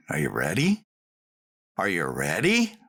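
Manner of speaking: a hint of a low snarling challenge; Butch's snarl. Retelling Butch's challenge to a young racer, mild low snarl. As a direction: lightly growl the dare like a gruff coach. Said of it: "he'd kinda snarl".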